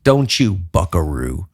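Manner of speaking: low, teasing scold of himself; mock self-scolding. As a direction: wag a finger at your own reflection. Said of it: "look me in the mirror and go".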